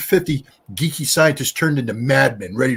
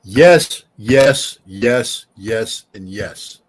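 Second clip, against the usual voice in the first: emphatic yes; 4 semitones lower, 4 dB louder, much slower than usual. Real, not acted. Answering the war question, loud then fading yes. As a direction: start loud, let each yes fall away.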